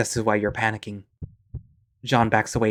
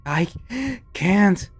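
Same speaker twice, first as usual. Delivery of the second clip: desperate protest; 10 semitones higher than usual. Acted.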